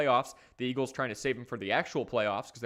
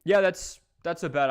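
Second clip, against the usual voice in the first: excited; 6 semitones higher, 6 dB louder than usual. Real, not acted. Enthusiastic agreement.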